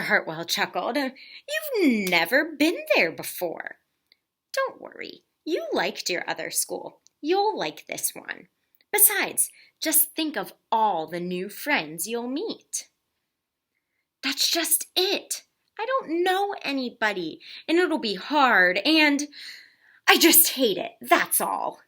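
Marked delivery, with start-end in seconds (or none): 1.0-12.9 reassuring father. Acted. Father reassuring nervous daughter, gentle and kind. 14.2-21.8 high, louder, distressed wail; upset child. Acted. Girl telling father her fears, rising upset whine.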